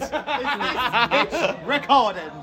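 slow laughing question; drawn out through laughter. Real, not acted. Laughing at the recorder.

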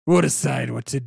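wrong character voice. Acted. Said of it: "that was not his voice".

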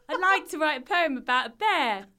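self-mocking imitation. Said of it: "says that I sound like this".

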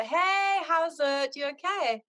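high, sing-song Zimbabwean phone greeting; lilting Zimbabwean hello, pitched right up; Zimbabwean accent. Retold or imitated. Greeting her oldest friend on the phone, Zimbabwean accent. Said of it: "My kids always know I'm speaking to her".

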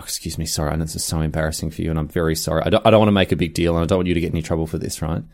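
soft, low, quick apologetic murmur; hushed polite complaint. Retold or imitated. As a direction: tell the waiter quietly, embarrassed and rushed. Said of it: "I was like".

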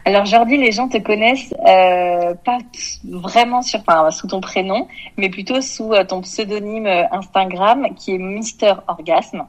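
echoey, like over a distant line. Real, not acted. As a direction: voice with a remote-call echo. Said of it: "ma voix est en écho".

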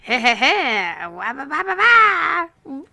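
squeaky cartoon plumber voice; bouncy video game character; Mario character voice. Shown as a demonstration. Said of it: "It just sounded like a Mario character".

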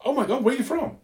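high, excited mock American gushing. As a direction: squeal it like a starstruck American fan. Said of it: "Somehow they go".

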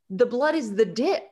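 a lightly voiced creepy deadpan kid. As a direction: say it flat and eerie, like a serious child. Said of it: "deadpan, creepy A F".

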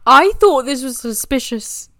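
slurred tipsy words; words running together, slurred; slurring. Real, not acted. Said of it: "I'm slurring my words".

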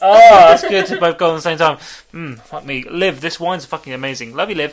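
tipsy, loose and rambling. Real, not acted. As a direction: talk like you've had a lot of wine. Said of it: "He's very drunk".

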